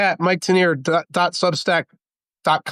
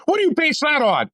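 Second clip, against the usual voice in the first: mock incredulous question; 9 semitones higher than usual. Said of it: "people are like".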